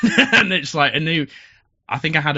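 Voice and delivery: real laughter breaking into speech; laughing. Real, not acted. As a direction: laugh out the words. Laughing over pool table standoff.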